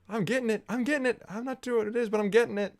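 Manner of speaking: high, hushed, spellbound murmur; awed moviegoer. Retold or imitated. Mock moviegoer slowly catching on.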